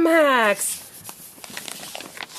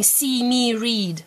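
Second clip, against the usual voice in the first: slow quote; much slower than usual. Shown as a demonstration. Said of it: "Who is saying".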